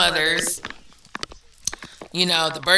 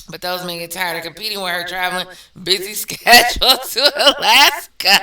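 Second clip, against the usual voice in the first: reading while cracking up; laughing; 4 dB louder than usual. Real, not acted. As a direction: laugh through the last word.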